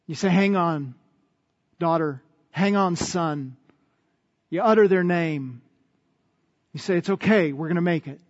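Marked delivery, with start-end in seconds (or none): 0.3-3.5 tender reassurance. Acted. Parent with an arm around a hurt child, tender reassurance. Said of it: "you put your arm around them". 7.0-8.2 gentle, settling down at the end; tender reassurance. Acted. Parent comforting a hurt child, tender reassurance. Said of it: "you put your arm around them".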